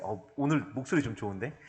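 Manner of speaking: usual speaking voice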